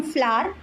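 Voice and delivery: "flour" as American "flower" with the middle eaten; US-style swallowed word. Shown as a demonstration. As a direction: squash "flour" into one syllable, American style. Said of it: "they try to eat words".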